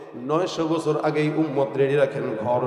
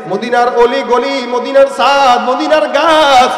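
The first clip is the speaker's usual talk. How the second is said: loud, rousing sermon delivery; full-force preaching; 10 semitones higher, 11 dB louder than usual. Real, not acted. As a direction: preach it out, stretching the line endings. (জোরালো ওয়াজের সুরে)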